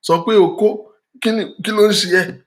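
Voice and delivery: mock disbelief. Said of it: "And I'm like".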